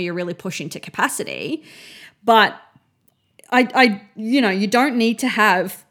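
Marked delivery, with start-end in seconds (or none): 2.2-5.8 hiccuping mid-sentence; speech broken by hiccups. Real, not acted. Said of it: "sorry, I've got hiccups".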